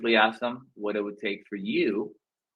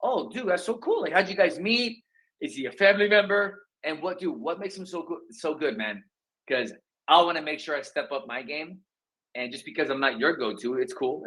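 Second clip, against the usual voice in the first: excited curious; 3 semitones higher than usual. Pretend. Agent asking a homeowner about their go-to agent, bubbly. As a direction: gush with friendly curiosity. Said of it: "That's the way I would frame it".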